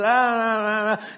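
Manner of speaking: mock sleepy dad's groaning "ah, ah"; imitating a dad who won't get up; dismissive groan. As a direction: brush it off with repeated wordless grumbles. Sleepy dad brushing son off.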